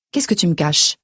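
understated accusing daughter's question; biting tone. A narrator's reading. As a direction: turn it back on your mother with a restrained edge. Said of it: "mon ton se fait mordant".

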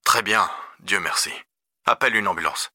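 lightly voiced concerned dad; father on phone. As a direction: question a son with restrained concern. Father instructs son by phone.

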